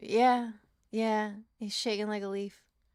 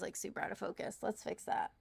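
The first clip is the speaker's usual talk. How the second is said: murmured aside while adjusting the camera; whispered aside; 10 dB quieter than usual. Real, not acted. Streamer whispering to herself while fixing the camera focus. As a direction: whisper it to yourself.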